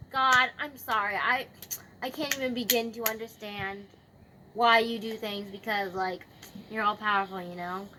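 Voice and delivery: lightly acted repentance; retold apology. Job confessing to God, mildly apologetic. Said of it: "he confesses and he apologizes and he repents".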